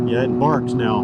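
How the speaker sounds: talking through a helmet over a barking exhaust; motorcycle helmet. Real, not acted. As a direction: helmet mic with wind and engine. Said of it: "Your audio is gonna be so weird".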